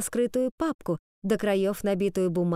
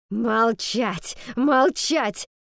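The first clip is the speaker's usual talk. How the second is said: howled order; 2 semitones higher, 4 dB louder, much slower than usual. A narrator's reading. Fox howling at Miss Finch to shut up, building louder. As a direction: howl Молчать twice, building. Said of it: "взвыла мисс Фокс".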